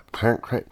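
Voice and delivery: mimicking a tongue-tangled "Parent cra-"; mocking garble. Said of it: "actually very hard for you to say".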